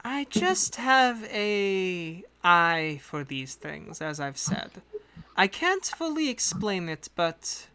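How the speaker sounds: a lightly put-on accent for a composed agent; the employer briefing hired adventurers in her accent; hint of a foreign accent; accent NPC voice. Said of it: "she always has the accent".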